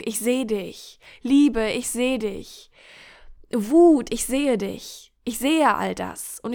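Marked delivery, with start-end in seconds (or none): 1.2-1.7 calls the feeling out loud. Acted. Gefühle einzeln gerufen. 3.5-4.1 Wut shouted out, higher; name the anger with force; loud call. Acted. Gefühle einzeln gerufen.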